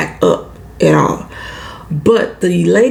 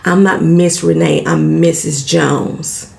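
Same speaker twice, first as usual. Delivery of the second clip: snobbish correction; 3 semitones lower, slower than usual. Retold or imitated. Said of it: "snobbish ass women who wanna make sure".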